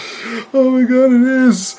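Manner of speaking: high-pitched, amazed squeal; excited exclamation. Real, not acted. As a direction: blurt it out in real, thrilled recognition. Excited reaction to co-host's comparison.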